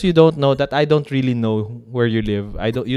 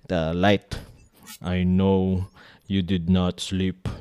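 slow theatrical villain menace; 3 semitones lower, 4 dB quieter than usual. Pretend. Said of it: "what if I pretend to be the bad guy again".

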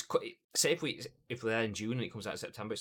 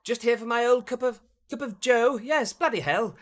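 much higher and louder exaggerated British accent; hammed-up British caricature; 14 semitones higher, 11 dB louder than usual. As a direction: overplay the Englishman abroad. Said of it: "You, you just go".

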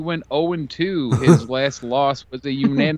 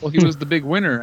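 sarcastic; faster than usual. Acted. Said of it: "You see how I said big winner, and I meant it the most sarca".

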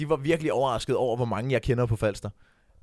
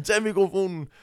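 higher-pitched imitated order; hurried command; 5 semitones higher than usual. Performer cutting off the sweat comment, urgent. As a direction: brush off the remark with a quick order. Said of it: "Og så var han sådan".

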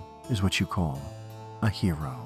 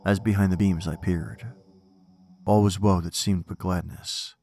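poem recitation. Acted. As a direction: recite it with dark gravity.

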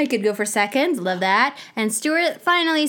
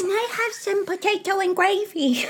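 high plea half shouted through laughter; giggling, raised-pitch request; laughing mock plea; 8 semitones higher than usual. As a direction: beg while cracking up. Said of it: "Please, sir, may I have some more?".

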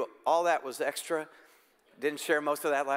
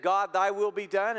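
surrendering prayer; 2 semitones higher than usual. Retold or imitated. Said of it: "Those who have said".

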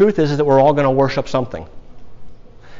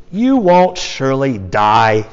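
serpent's voice; slower than usual. Acted. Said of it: "the serpent said to the woman".

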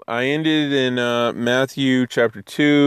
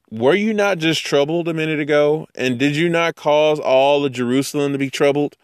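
higher, pointed disbelief at Herod; incredulous challenge; 5 semitones higher than usual. Retold or imitated. Teacher confronting Herod over his fake worship, incredulous. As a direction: call out his hypocrisy, raised pitch. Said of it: "It's like".

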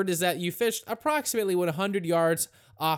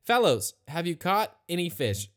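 imitated yelling; 2 semitones higher than usual. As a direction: act out hailing someone far off. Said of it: "he's yelling at these guys".

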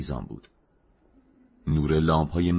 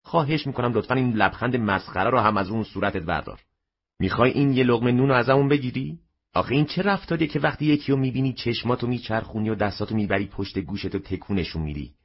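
angry scolding; 6 semitones higher than usual. A narrator's reading. Mother berates her smiling son over his manners. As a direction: berate the grinning child.

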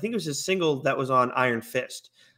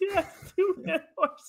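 high and slow through laughter; laughing repeat; slower than usual. Real, not acted. Host echoing his own blooper, slow and laughing high. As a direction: savour the blunder, giggling.

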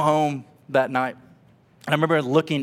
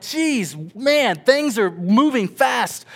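overwhelmed awe; 9 semitones higher, 5 dB louder, much slower than usual. Retold or imitated. Overwhelmed new father.

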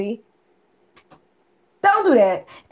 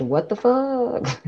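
drawn-out mock disbelief; slow disbelief; 2 semitones higher, much slower than usual. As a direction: stretch it out, stunned. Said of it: "she said".

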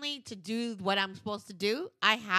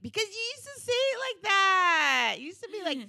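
high, loud mocking comeback; high playful jab; mock teasing voice; 10 dB louder than usual. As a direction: tease him with his old slang. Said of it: "I'm like".

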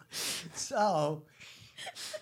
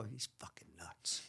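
hushed whisper, far softer; whispered gossip; 7 semitones lower, 14 dB quieter than usual. Retold or imitated. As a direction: whisper it like gossip behind his back. Voicing people's gossip about him.

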